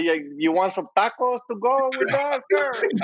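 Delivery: high, slow cartoon Latino accent; mock Latino accent. Taco seller asking a customer, exaggerated Latino accent. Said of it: "I don't talk like this".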